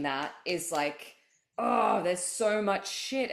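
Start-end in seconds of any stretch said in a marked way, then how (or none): 1.6-3.3 tearful. Real, not acted. Emotional about owning power.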